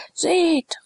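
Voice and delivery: high commanding "Seht"; thundering voice. A narrator's reading. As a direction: command them to look. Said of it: "rief er mit donnernder Stimme".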